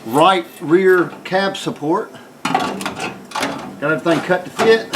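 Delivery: slow talk, lying under a truck. Real, not acted. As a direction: speak from flat on your back under a truck. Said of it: "I'm under the truck right here".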